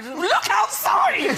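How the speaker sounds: exasperated shout. Retold or imitated. Fed-up daughter yelling at parents about weather reports. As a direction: yell it, fed up with them. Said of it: "Constant weather reports".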